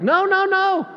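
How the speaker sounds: high, loud "no, no, no"; emphatic denial. Real, not acted. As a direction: wave the accusation away. Denying the accusation.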